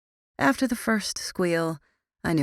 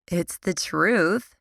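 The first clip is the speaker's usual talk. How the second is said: declaring with attitude; much slower than usual. Acted. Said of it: "declared with her usual attitude".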